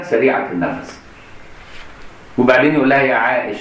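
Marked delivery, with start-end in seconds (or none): 3.0-3.6 tender, clipped "يا عائش" with the final ending dropped; affectionate nickname. Shown as a demonstration. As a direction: say "يا عائش" lovingly, cutting off the last sound. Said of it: "يسموه ترخيم، بيدلعها".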